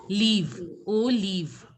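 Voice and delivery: "Leave" with long ee, then "O leave"; French olive in parts. Shown as a demonstration. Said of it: "you have to pronounce it as leave".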